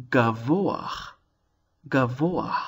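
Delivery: "gavoach" with o gliding into a short a; slight glide. Shown as a demonstration. Teacher repeats the example word for learners, slight glide. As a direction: say "gavoach" twice, sliding from o to a at the end. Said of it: "we have a bit of a glide".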